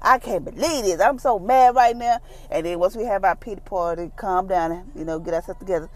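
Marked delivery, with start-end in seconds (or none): 0.0-2.2 mild mock exasperation, pitched up; higher, lightly hammed-up venting; acted mad. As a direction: act out a frustrated little outburst. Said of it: "You get all mad".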